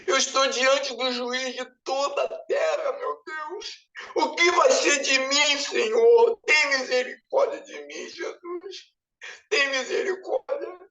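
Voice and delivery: tearful pleading, breaking on Deus; crying prayer. Retold or imitated. Before the judge of all the earth, sobbing plea for mercy. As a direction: beg for mercy through sobs. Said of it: "falei assim".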